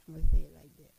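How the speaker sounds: "I'ma say it like that" said out loud and punchy, in an altered voice; loud emphatic take. Shown as a demonstration. Preacher driving the line home to women, loud. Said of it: "That's the right way of saying it".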